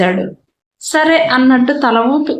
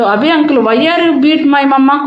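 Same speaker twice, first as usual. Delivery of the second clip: put-on angry child; 3 semitones higher, slower than usual. Little boy accusing his uncle of hitting mama, angrily. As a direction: drag each word out in reproach. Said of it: "కోపంగా అన్నాడు".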